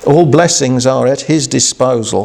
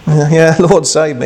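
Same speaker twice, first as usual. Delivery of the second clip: offhand mock prayer; 4 semitones higher than usual. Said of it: "He didn't say".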